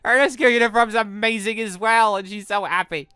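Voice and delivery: high, loud, drawn-out adoring squeal; gushing fangirl. Acted. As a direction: gush over her like a fan. Player gushes over Evelyn's looks.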